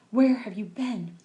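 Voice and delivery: a mild scolding demand; cross. Acted. Mother scolds her late son, crossly. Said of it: "Mother gave me a cross look".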